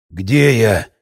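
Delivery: low, rasping, dazed croak; hoarse croak. A narrator's reading. Captive man wakes, croaking in confusion. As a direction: croak it out, barely awake. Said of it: "прохрипел мужчина".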